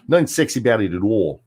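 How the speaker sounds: imitating a thick Jersey accent, vowels twisted; mock Jersey accent. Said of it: "nothing sexy about the Jersey accent".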